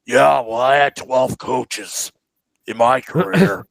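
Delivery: lightly mimicked sarcastic player; drawn-out mock boast, imitating a teammate; Colin. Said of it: "try to mimic Colin".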